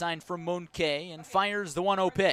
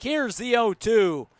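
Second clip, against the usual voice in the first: tense call; 5 semitones higher, 7 dB louder than usual. Real, not acted. Final strike, tension building.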